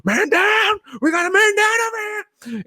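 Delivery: high, loud call across the woods; shouting for help. Retold or imitated. Dormer calling his team to the fallen partner, shouting. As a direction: yell it out, urgent.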